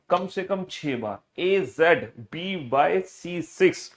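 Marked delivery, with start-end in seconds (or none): 1.4-3.9 rhythmic classroom chant, pairs lifting at the end; read-aloud drill. Shown as a demonstration. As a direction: recite the list briskly in sing-song pairs. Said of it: "जोर जोर से बोल के पढ़ना है".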